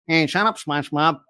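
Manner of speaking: nasal cartoon grouch; Squidward. Coach demonstrating nasal voice for trainees, nasal cartoon impression. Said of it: "Sounds like Squidward".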